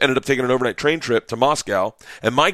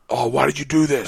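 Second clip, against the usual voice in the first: higher anguished self-reproach; inner panic; 3 semitones higher than usual. Acted. Comic's brain scolding him mid-panic, anguished. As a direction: wail it mildly at yourself. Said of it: "your brain going".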